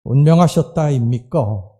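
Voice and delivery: lightly imitated Gyeongsang speech; Gyeongsang dialect quote. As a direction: say it like a Gyeongsang local. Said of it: "경상도 사람들은요". (경상도 사투리 흉내)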